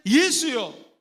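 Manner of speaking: slow loud cry of 나사렛 예수여; drawn-out pleading call. Shown as a demonstration. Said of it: "영적인 사람들은".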